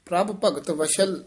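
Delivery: brief halt after ਵਸ਼ਲ; pause after ਵਸ਼ਲ. Shown as a demonstration. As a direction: stop briefly at ਵਸ਼ਲ, then continue. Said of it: "ਇੱਥੇ ਠਮਕ".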